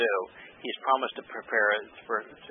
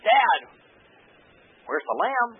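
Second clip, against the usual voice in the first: put-on child voice; 10 semitones higher, 4 dB louder, slower than usual. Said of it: "was asked by Yishak".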